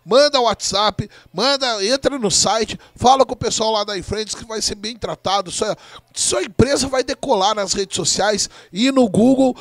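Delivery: quick, upbeat sponsor plug; ad read. Acted. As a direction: rattle off the ad brightly. Sponsor ad read mid-broadcast.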